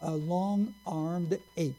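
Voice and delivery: slow, drawn-out scornful jab; mocking sneer. Preacher quoting a rival's slur, slow and scornful. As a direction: drag out each word like an insult. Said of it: "a pet phrase that he used about Abraham Lincoln".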